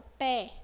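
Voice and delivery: PÉ said with an open É; open vowel. Shown as a demonstration. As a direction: open the mouth on Pé. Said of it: "Vocês abrem a boca".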